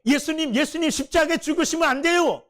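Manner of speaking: 따지듯이 항의하며; arguing, protesting. Retold or imitated. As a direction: press the point like a disciple arguing. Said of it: "막 따지듯이 얘기했다".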